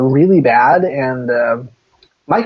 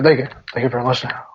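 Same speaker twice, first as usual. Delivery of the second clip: Elvis impression; 2 semitones lower, 3 dB quieter, faster than usual. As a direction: murmur it like a lazy Elvis. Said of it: "that's the way that Elvis sounds".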